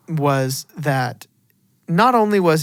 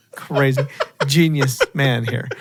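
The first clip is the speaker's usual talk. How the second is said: laughing sarcasm. Real, not acted. Mocking co-host's obvious answer.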